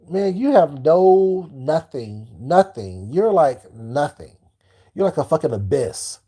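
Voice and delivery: slow, drawn-out disdain; contemptuous. Real, not acted. Dismissing a critic as nothing, slow contempt. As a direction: lay the scorn on slowly.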